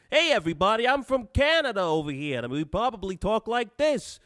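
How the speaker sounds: high, exaggerated fake Canadian accent; butchered Canadian accent. Streamer pretending he's from Canada over here, fake Canadian accent. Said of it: "I think I just butchered the Canadian accent".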